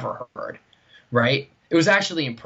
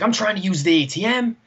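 a hint of an indignant stranger; mock angry guy voice; 7 semitones higher than usual. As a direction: put on the complaining guy's voice. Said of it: "he's like".

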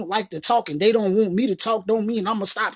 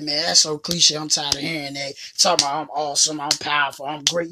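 lower, dismissive whine about being tired of it; mock cliche complaint; 5 semitones lower than usual. Imitating the listener who's sick of hearing it, dismissive. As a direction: scoff at the cliche in a low grumble. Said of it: "you be like".

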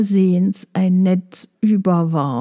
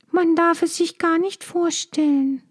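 sad hushed whisper; 8 semitones higher than usual. Acted. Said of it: "flüsterte sie traurig".

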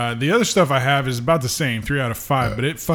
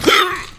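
hiccup. Real, not acted. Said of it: "Got the hiccups".

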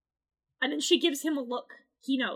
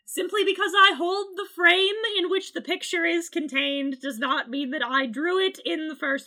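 grand proclamation; 4 semitones higher, 6 dB louder than usual. Pretend.

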